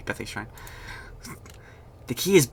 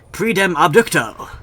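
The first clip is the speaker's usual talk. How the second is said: mock spell incantation; 6 semitones higher, 6 dB louder than usual. Mock spell, called Harry Potter.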